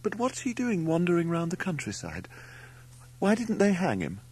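very high-pitched horror; aghast. A narrator's reading. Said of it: "said Mother aghast".

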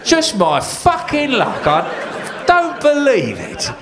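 King Harold cursing on the battlefield; raging wounded king. Acted. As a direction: rant in furious disbelief. King Harold with arrow in eye.

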